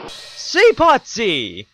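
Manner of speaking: "Seapotzy" drawn out very slowly, each syllable stressed; name pronunciation. Shown as a demonstration. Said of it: "another case of name pronunciation".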